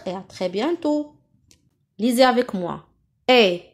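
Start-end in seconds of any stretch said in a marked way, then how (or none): 3.3-3.6 "Et" as a closed é, mouth barely open. Shown as a demonstration. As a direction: say "Et" as é without opening the mouth. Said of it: "sans ouvrir la bouche". (« Et » prononcé é fermé)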